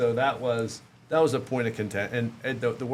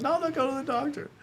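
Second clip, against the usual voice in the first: retold stubborn refusal; faster than usual. Retells stubbornly refusing wife's advice.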